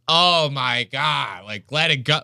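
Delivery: drawn-out mock exasperation; imitated audience girl. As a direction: lightly mimic a fed-up heckler, stretching "Oh my God". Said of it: "one of the girls in the audience goes".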